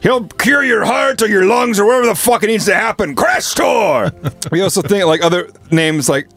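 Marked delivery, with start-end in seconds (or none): 0.0-4.1 barbarian shout. Pretend. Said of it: "this big fucking barbarian storms onto the beach".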